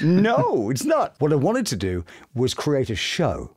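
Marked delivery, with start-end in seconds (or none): 0.0-1.1 high, loud mock dismissive no; blunt critic. Voice actor mocking a critic who rejects his work, high and loud. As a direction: toss it off like a scornful critic. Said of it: "some might go".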